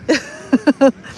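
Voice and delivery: amused little chuckle; brief laugh at her own story; short giggle. Real, not acted. Recalling the weird club night, short giggle.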